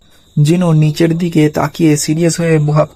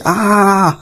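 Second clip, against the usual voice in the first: short sharp pained cry, a little higher; 4 semitones higher than usual. A narrator's reading. Clutching her head, Miss Norma cries out. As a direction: cry out as if struck by a vision. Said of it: "চিৎকার করে ওঠে".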